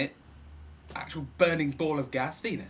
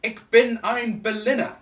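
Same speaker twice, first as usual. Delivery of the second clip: JFK speech; 6 semitones higher, 9 dB louder than usual. Retold or imitated. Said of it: "he said".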